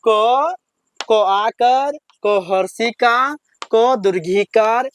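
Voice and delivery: paced chant with pauses between items; teacher leads class recitation; slow recitation drill. Shown as a demonstration. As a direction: recite the list slowly for pupils to repeat. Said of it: "फिर से देखिए".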